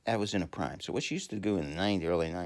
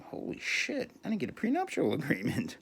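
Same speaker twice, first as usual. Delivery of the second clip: mock panicked rich guy; 10 semitones higher than usual. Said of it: "They say".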